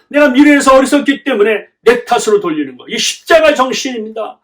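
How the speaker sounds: building to a high, loud sermon climax; impassioned preaching. Real, not acted. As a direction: hammer out each point with rising fervour. (점점 높고 크게 고조되는 열띤 설교)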